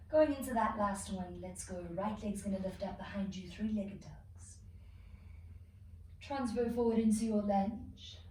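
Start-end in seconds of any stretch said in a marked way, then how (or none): 3.5-4.6 slow breathy whisper. Shown as a demonstration. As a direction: whisper the cue slowly. Same cue, whispered this time.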